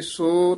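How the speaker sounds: ਸੋ held, then a tiny break; ਸੋ, marked off from the next word; slight pause after. Shown as a demonstration. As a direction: set ਸੋ apart with a brief pause. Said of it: "ਯਮਕ ਲਾ ਦੇਣੀ ਹੈ".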